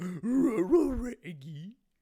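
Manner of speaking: shrill, very high, loud, swooping cartoon dog voice. Showing what the Scooby impression can do: Scooby-Doo voice. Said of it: "but I can go".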